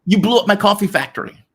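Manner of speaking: high, loud mock outrage; mock outraged complaint. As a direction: wail like a hammed-up aggrieved coffee lover. Mock complaint of coffee lover.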